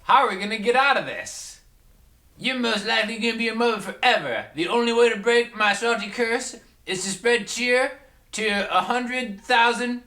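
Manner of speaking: high, gloating ghost voice; Salty Blues Spirit. Acted. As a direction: sneer like a smug holiday spirit. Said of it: "I'm the Salty Blues Spirit of Christmas Past".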